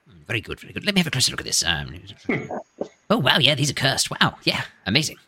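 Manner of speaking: lightly voiced fussy gnome; a hint of a curious old gnome.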